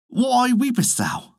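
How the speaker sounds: lightly voiced maid; maid asking. A narrator's reading. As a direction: ask gently, drawn out. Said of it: "asked the maid".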